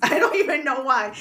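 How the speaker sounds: real nervous chuckle; nervous laugh. Real, not acted. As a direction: giggle through it, jittery. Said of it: "I'm actually nervous".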